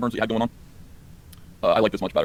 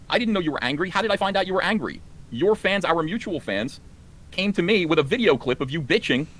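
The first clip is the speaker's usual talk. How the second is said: exasperated rant; 5 semitones higher than usual. Real, not acted. Rising exasperation at Az.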